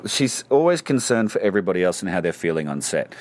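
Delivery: faintly exasperated, with a sigh first; sigh, then a touch of weary exasperation. Real, not acted. Actor recalling his co-star's constant concern, faintly exasperated. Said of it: "I don't mean to sound exasperated".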